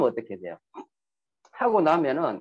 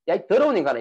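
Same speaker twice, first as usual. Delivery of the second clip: mild retold scolding; 3 semitones higher, 4 dB louder, faster than usual. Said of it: "이렇게 이야기했어요".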